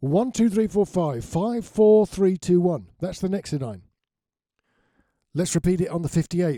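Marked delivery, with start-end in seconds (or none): 0.0-2.9 loud, bellowing voice. Testing a microphone the way one does on stage: bellowing mic check. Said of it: "in a loud voice".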